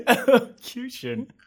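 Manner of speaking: amused, drawn-out repeat of the word; laughing. Real, not acted. Host mocked as Mister Elocution, laughing slow repeat. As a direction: laugh through "Elocution" slowly. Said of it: "Mister Elocution".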